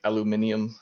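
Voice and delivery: aluminium as al-oo-MIN-ee-um; British pronunciation. Shown as a demonstration. Example of British and American difference, aluminium as al-oo-MIN-ee-um. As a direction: say aluminium with five syllables, stress on MIN. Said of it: "the British and the Americans just".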